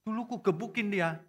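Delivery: high mock-tearful confession; imitated crying. Husband admits beating his wife, imitated crying. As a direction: own up like a weeping husband. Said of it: "Suaminya nangis-nangis".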